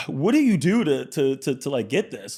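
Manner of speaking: high, loud eager asking; mock eager teen voice; eager question. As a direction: rush it out like an awed kid. Jay voiced in retold story.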